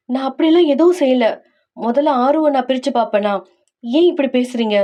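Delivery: wife defending herself to her husband; hurt protest. Acted. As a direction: protest the accusation, pitch lifted a little. Acted quarrel, wife protests accusation.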